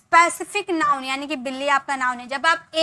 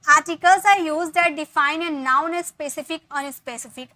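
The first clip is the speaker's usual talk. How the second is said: slow reading; 2 semitones higher, 5 dB louder, much slower than usual. Shown as a demonstration. Teacher reading a definition.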